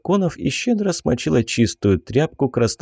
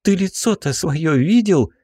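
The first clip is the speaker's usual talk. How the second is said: angry; 6 semitones higher than usual. Acted. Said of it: "зло посмотрела на меня".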